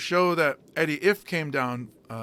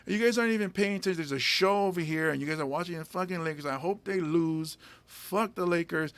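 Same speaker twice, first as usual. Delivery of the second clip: higher pitched, rushing through the scolding; mock crowd rant; 3 semitones higher than usual. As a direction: berate the bar crowd for watching the game, half-acted. Insulting the crowd to grab attention.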